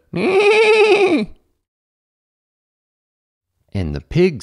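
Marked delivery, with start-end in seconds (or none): 0.1-1.4 high, loud whinnying neigh; horse neighing. A narrator's reading. Horse calling the farmer to get up, neighing. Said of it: "the horse said".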